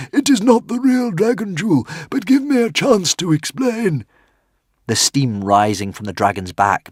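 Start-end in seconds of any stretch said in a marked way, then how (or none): 0.1-4.1 very high, louder squeak; tiny frantic squeaking creature; squeaky little dragon. A narrator's reading. Woden's Fang pleads.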